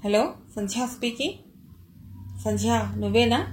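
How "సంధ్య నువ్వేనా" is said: man faking a woman's voice on the phone, a hint of it; faked female voice. Shankar disguises his voice as a woman calling Sandhya, lightly voiced. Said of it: "ఎవరో ఆడగొంతు".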